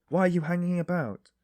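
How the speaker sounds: loud, high, angry shout. A narrator's reading. Porter shouting at the loitering stranger, angry and loud. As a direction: shout it, losing patience. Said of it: "beginning to get angry in earnest".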